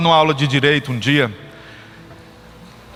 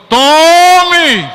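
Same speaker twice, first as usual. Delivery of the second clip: a student's taunting shout, higher and louder; mock cheer; 11 semitones higher, 8 dB louder than usual. Student shouting at the beaten professor, loud cheer. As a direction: shout it like a gotcha from the back row. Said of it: "um aluno gritou assim".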